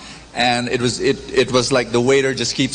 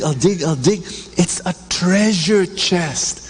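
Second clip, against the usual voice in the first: excited finder; 3 semitones higher than usual. Acted. Trespasser acted finding box.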